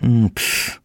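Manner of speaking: scornful little "pff"; dismissive puff through teeth. A narrator's reading. Commissioner scoffs to himself, dismissive puff. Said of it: "Komisarz gwizdnął przez zęby".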